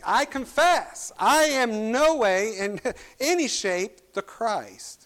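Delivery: loud, slow, high-pitched declaration; emphatic confession. Retold or imitated. Preacher voicing John the Baptist denying he is the Christ, emphatically. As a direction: declare it emphatically, drawing out each word. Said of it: "John the Baptist do emphatically".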